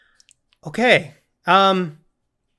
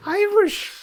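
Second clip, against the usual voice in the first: mock squeal. Echoing the co-host's squeaky mimic.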